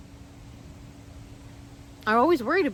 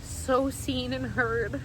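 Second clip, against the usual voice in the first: sincere, moved; 2 semitones higher, much slower than usual. Real, not acted. Thanking the nurse who opened up, slow and moved. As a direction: let each word land slowly.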